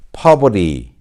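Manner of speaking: American "poverty" as "pah-ver-ee", T flapped; American model word "poverty"; American pronunciation. Shown as a demonstration. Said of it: "미국식으로 발음하면".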